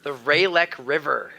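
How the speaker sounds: "Ralek" with a long AY, RAY-lek; first-syllable pronunciation. Shown as a demonstration. Answering the quiz question, "Ralek" said as RAY-lek. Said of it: "I would have pronounced it".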